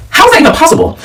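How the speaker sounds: high-pitched retold disbelief. Hearing that her sister is pregnant, incredulous. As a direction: act out being floored by the news.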